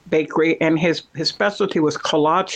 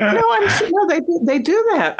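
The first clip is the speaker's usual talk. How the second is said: excited insistence; 13 semitones higher than usual. Real, not acted. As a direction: jump way up in pitch to insist. Insisting the bakery idea is real.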